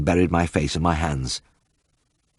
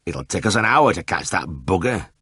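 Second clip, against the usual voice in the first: gloomy grunt. A narrator's reading. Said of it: "grunted Ernest gloomily".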